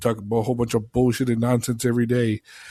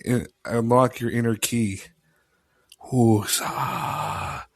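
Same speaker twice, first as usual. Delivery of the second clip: right in your ear. Pretend. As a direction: purr it right into their ear. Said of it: "you were doing, like, a fucking J O I".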